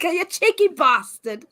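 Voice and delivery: put-on slow English accent through laughter; badly faked English, drawn out and laughing; attempted English accent. Trying again for the co-host, laughing attempted English accent. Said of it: "let's try that again".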